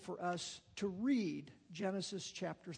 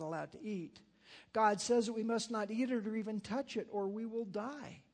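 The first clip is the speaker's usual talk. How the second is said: scripture reading. A narrator's reading. Reads Genesis story aloud.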